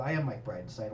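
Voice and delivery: low, quiet mock-solemn voice; mock self-important reply. Comic answering the neighbor about his script, mock self-important. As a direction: drop low and hushed, mock grave.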